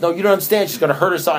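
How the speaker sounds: mock frantic plea; retold pleading. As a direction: plead in a panic. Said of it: "He says".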